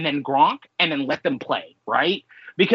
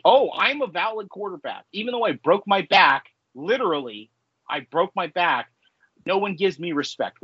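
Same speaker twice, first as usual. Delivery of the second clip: Tony. Retold or imitated. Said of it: "that's what's so annoying to me".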